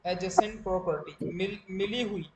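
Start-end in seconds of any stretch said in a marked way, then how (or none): 0.0-1.1 adjacent said slowly as "a-jacent"; silent D. Shown as a demonstration. Teacher gives a second example, silent D in adjacent. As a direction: leave the D out of adjacent. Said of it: "डी silent रहता है, जैसे".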